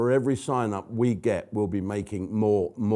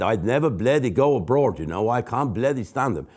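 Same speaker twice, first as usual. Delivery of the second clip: Jethro. Retold or imitated. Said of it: "That was him".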